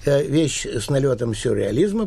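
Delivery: usual speaking voice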